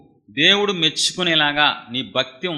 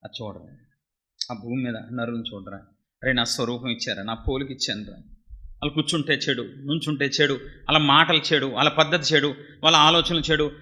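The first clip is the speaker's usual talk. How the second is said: hushed, grieving lament, a hint of weeping; God lamenting. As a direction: sigh it out over mankind. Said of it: "అని ఏడుస్తున్నారు".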